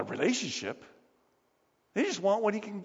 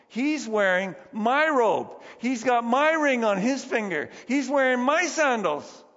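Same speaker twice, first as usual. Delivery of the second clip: louder, slow indignant rant with stress on my; jealous grievance; 5 semitones higher, 4 dB louder than usual. Acted. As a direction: spit out each my like stolen property. Voicing older brother's jealous grievance.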